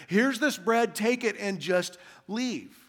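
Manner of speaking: slow, exasperated giving in; acted weary annoyance, words drawn out; frustrated. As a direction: hand it over slowly, fed up. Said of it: "out of frustration".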